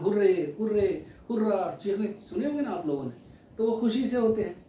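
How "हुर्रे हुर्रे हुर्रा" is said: a teacher's mock hurray, a little louder; imitating a cheer. Teacher imitates children cheering over a match win. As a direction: cheer like kids who just won a match. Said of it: "जैसे बोल रहे हैं".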